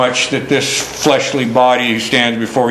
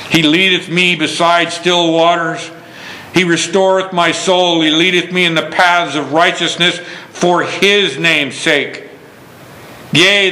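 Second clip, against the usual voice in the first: raised, flowing psalm reading; scripture reading; 3 semitones higher than usual. Acted. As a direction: read it out to the congregation with rising fervor. Reads psalm in preaching voice.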